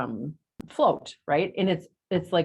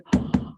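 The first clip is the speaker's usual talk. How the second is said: excited gasp. Retold or imitated. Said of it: "I was like".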